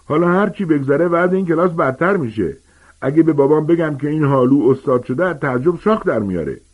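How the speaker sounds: loud, high mocking taunt; Malfoy loudly mocking Hagrid's teaching. A narrator's reading. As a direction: jeer so the whole class hears. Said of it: "مالفوی با صدای بلند گفت".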